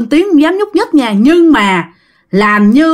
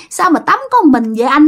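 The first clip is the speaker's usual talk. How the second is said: mock teasing; 5 semitones higher than usual. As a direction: imitate a ghost teasing a man at his bath. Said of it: "Nó ghẹo ông Năm vậy đó".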